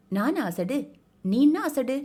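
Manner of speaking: a touchy half-mad man bristling at being called a fool; offended retort. Acted. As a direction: throw the insult back at her.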